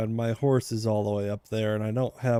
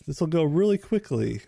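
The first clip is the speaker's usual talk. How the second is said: sarcastic self-quote; 5 semitones higher than usual. Retold or imitated. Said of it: "he said".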